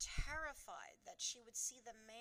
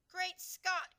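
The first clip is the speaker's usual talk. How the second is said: higher, louder astonished exclamation; shocked cry; 10 semitones higher, 13 dB louder than usual. A narrator's reading. Queen crying out at the headlines, shocked. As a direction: gasp it out in shock. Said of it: "cried the famous voice".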